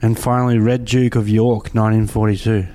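lightly posh, plummy reading. Acted. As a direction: read the names like a posh toff. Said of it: "this is my posh spud voice".

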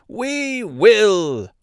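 high, eager little mouse cry; shrill mouse chorus. A narrator's reading. Mice all answer their queen's order, shrill cry. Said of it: "in a shrill chorus".

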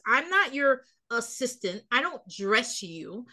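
slow, each word set down deliberately; pointed slow put-down. Pretend. Wife to husband over the pants, slow and pointed. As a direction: spell it out slowly like it should be obvious.

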